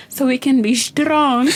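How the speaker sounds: put-on drawn-out kid voice, stretching "strong"; proud little student. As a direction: imitate a small child proudly answering the teacher. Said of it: "She said".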